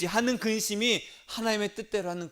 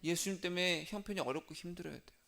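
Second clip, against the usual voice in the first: softer, settled repeat of the line; quiet restatement; 8 dB quieter, faster than usual. Shown as a demonstration. Preacher restating the line to the congregation, softer. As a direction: bring it down after the congregation's echo. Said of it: "따라하겠습니다".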